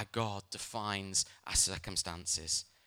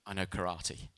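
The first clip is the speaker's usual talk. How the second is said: mock-serious boast; 5 semitones lower, 5 dB quieter than usual. Dad boasting to scared children.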